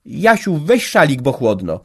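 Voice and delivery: mother calling to her son about a scarf. A narrator's reading. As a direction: call to the son to wrap up. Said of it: "zawołała do syna".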